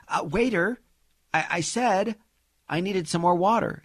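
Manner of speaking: lightly voiced fussy lady on the Titanic; entitled passenger. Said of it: "You're on the Titanic".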